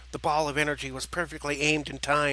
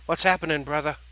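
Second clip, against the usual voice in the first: lightly raised calling voice; 4 dB louder than usual. Acted. Turkey calling to his brother after the crash, calling out. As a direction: call over to a brother, a bit louder at first. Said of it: "Jerky stood and called out".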